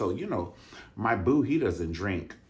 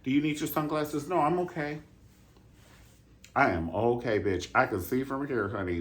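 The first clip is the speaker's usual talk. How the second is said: high, playful impersonation of a blind singer; a sassy mock back-and-forth; mock a famous singer; 5 semitones higher than usual. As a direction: mime a cheery exchange. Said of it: "He would have".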